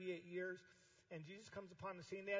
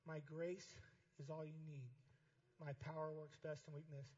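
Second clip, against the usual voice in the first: slow scripture reading; 3 semitones lower, 4 dB quieter than usual. Shown as a demonstration. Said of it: "read out loud to me".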